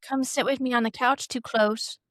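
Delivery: lisping talk-show host impression; playful imitation with slushy s sounds; Drew Barrymore. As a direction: put on a lisp, pitched slightly up. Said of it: "Drew Barrymore's twin sister who has a lisp".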